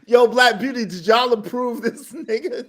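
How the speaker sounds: asking through real laughter; can barely get the question out for laughing. Real, not acted. Reactor asks Black Beauty, laughing.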